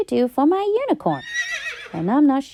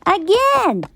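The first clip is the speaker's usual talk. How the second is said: exasperated; 7 semitones higher than usual. A narrator's reading. Exasperated refrain in story.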